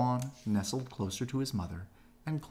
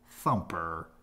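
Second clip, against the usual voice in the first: mother rabbit exclaiming; 4 semitones lower, 3 dB louder than usual. A narrator's reading. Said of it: "the mother rabbit exclaimed".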